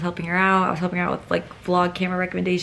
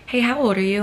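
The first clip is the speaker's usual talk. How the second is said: higher, louder mock come-on; 4 semitones higher, 7 dB louder than usual. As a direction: imitate a boy calling out a pickup line.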